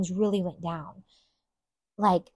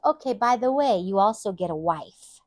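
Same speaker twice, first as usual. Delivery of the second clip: curt; 2 semitones higher, 4 dB louder than usual. Retold or imitated. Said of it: "Very curtly".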